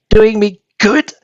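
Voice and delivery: high, outraged wail, slowing at the end; outraged old woman. A narrator's reading. Grandma screams at George that the medicine is killing her. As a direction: scream it like it's killing you. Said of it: "she screamed".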